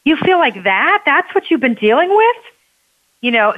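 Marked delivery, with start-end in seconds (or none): 0.1-2.4 pitched-up, astonished questions; friend's dawning shock, higher with each question; sudden realization. Retold or imitated. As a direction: retell the friend finally getting it, voice climbing higher. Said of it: "she was like".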